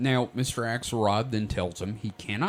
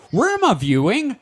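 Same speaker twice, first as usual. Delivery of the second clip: laughing; 11 semitones higher, 4 dB louder than usual. Retold or imitated. Swan's question, retold laughing.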